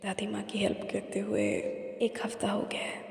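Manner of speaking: whispered, softly; hushed whisper. Acted. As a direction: whisper it like a secret diary entry. Private diary-like confession, hushed. (धीमी फुसफुसाहट में)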